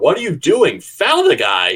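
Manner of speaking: high, loud screaming.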